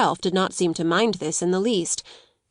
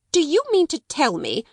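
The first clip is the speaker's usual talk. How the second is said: cried out; 8 semitones higher than usual. Acted. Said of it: "she cried out".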